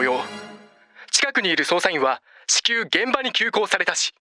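police radio. Acted. Police radio dispatch announcement.

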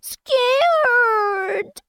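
put-on high, crying little-kid voice; scared little child. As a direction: whimper it like a frightened toddler. Little brother frightened by fire.

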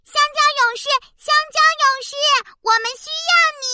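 high calling through a megaphone. Acted. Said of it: "拿起大喇叭就开始喊".

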